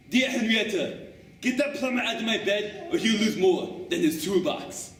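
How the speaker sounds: Axe reading his note, laughing; gruff joker delivering a punchline with a laugh; Axe's joke note. Acted. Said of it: "His best one was".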